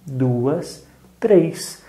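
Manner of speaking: normal talking voice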